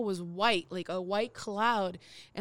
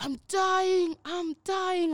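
dying man; 8 semitones higher, 4 dB louder, much slower than usual. Retold or imitated. Imitating the sick man in restroom.

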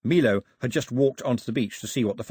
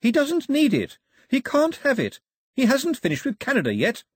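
screamed; 4 dB louder than usual. A narrator's reading. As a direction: shriek your refusal. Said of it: "Daphne screamed".

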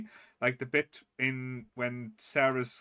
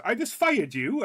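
high, loud, slow mock outrage; indignant goblin; 10 semitones higher, 8 dB louder, slower than usual. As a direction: protest loudly like a goblin cannonball. Angry goblin cannonball, acted out.

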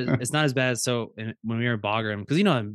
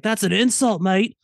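high, loud mock-offended Australian; indignant in a put-on Australian accent; fake Australian accent; 10 semitones higher, 7 dB louder than usual. Prankster caught by air traffic controller, offended fake Australian accent. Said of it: "So you're not Australian?".

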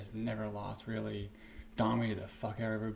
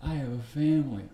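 mock outraged protest; 2 semitones higher, 5 dB louder than usual. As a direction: play the wronged family man shouting back. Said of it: "And D C's like".

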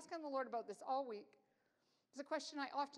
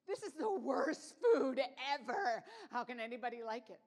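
half-laughing, hammed-up disgust at the food; laughing complaint; 9 dB louder than usual. Recalling her own thoughts at the in-laws' table, laughing.

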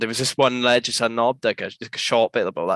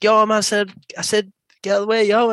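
raised, higher retold warning; high mock yell; 9 semitones higher, 4 dB louder than usual. Skater telling the big guy to move, high mock yell. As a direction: bark it out like a skater squaring up.

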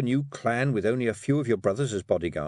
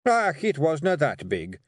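higher, cornered Scottish protest; desperate excuse; 6 semitones higher, 3 dB louder than usual. Acted. Rob looks for a way of escape, desperate. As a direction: wriggle out of it. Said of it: "desperately looking around for a way of escape".

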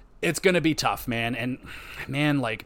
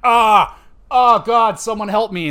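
loud, high hammed-up yelp of pain; a mock wail of a player in pain; mock cry for help; 7 semitones higher, 9 dB louder than usual. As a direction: play the hurt player, left alone and begging for help. Mock injured player crying out.

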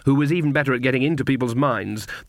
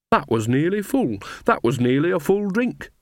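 mildly wounded reproach, rising in pitch on the repeat; reproachful; 6 semitones higher than usual. A narrator's reading. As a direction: protest at a loss with reproach. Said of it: "said Nanny reproachfully".

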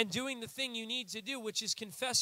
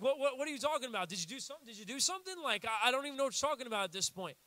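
a light, quick puzzled God voice; facetious God; 3 semitones higher, much faster than usual. Retold or imitated. God puzzled that the sin is even mentioned, lightly played fast. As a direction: play God baffled, fast. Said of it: "I'm being a little facetious right now".

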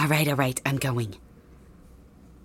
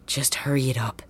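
whisper; 3 semitones lower, 6 dB quieter than usual. Acted. Villain hurries partner quietly.

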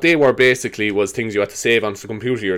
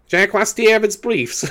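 put-on high, drawn-out Kerry accent; mock Kerry accent, verging on laughter; Kerry teacher impression; 11 semitones higher, much slower than usual. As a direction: imitate a puzzled Kerry teacher, slowly. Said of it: "he was from Kerry".

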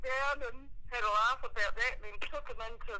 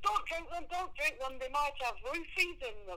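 imitating Mum; 6 semitones higher than usual. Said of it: "She says".

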